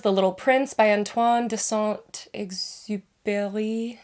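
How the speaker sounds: a light French accent on the title and author; hint of a French accent. Shown as a demonstration. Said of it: "my best French accent".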